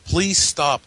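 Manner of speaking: high, loud imitated plea; mock scream. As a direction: shout it like the ghost. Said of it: "she says".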